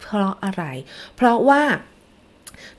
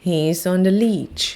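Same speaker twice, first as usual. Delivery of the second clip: He's on the leech, each word slow and separate; slow model sentence; much slower than usual. Shown as a demonstration. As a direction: read He's on the leech very slowly for kids to copy. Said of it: "พูดตามอีกทีนะคะ".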